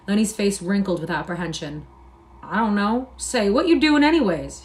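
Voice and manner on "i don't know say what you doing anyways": rising to a high alarmed cry; cried out. A narrator's reading. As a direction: panic breaking through. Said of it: "he cried".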